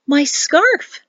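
high, startled woman's voice; sudden remembering. A narrator's reading. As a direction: exclaim as it suddenly comes back. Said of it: "she suddenly remembered".

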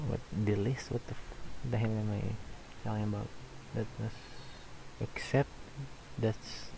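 hushed unvoiced exclaim; whispered. Real, not acted. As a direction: drop to a breathy whisper. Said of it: "self-censored exclamation".

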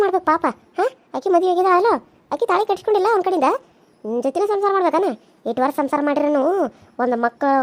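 a lightly voiced nagging old mother-in-law; scolding mother-in-law. Mother-in-law berating the younger wife, lightly voiced nagging scold. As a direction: nag and taunt her like a sharp-tongued elder.

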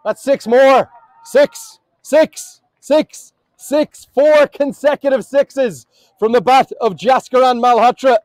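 live cricket excitement; excited six-hitting call. Real, not acted. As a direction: count off the big hits with rising excitement. Commentator calls a run of sixes.

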